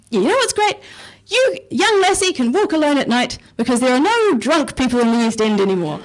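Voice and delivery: playful impression of a tipsy Glasgow man; drunk Glaswegian man. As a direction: ham up a drunk local chuffed with his city. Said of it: "He says it in a Scottish accent".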